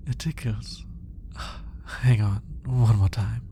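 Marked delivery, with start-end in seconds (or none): 0.9-1.8 quiet, short breathy sigh; gentle little exhale; soft sigh. Acted. Pause between kisses.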